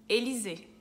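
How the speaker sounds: "Élysée" with Y as "i"; French pronunciation. Shown as a demonstration. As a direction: say "Élysée" as "e-li-ze", stress last. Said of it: "é o mesmo som de I". ("Élysée" em francês, Y com som de I)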